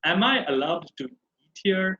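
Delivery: "here" lifted as a question; rising question tone. Shown as a demonstration. Teacher models asking permission, rising tone on "here". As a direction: ask it with the end going up on "here". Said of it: "always go with the rising tone".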